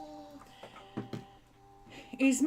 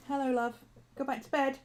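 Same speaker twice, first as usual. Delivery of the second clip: soft dog talk; 3 semitones higher, 4 dB quieter than usual. Real, not acted. Talking softly to her dog.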